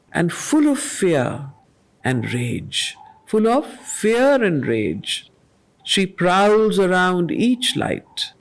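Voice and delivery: slow, measured reading of verse; poem recitation. Acted. Teacher reading Savitri lines to the class, measured and solemn. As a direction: let each line land with weight.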